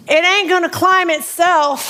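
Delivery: gentle drill sergeant voice; lightly voiced drill sergeant; kind drill sergeant. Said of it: "in his most kind drill sergeant voice".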